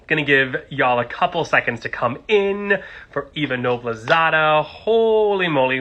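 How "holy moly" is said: drawn-out, high thrilled exclamation; excited. Real, not acted. Host opening his live stream, thrilled about his guest. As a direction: gush with real excitement. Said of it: "we're excited".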